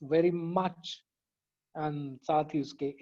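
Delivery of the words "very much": "very much" drawn out very slowly; rhyme picked out. Shown as a demonstration. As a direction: stretch "very much" to show the rhyme. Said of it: "काफी और रदीफ था ना".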